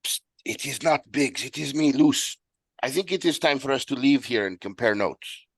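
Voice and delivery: high-pitched, put-on voice for Luce; urgent high-voiced aside; secretive character voice. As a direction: get a friend's attention in a high character voice. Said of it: "locate Cyrus and be like".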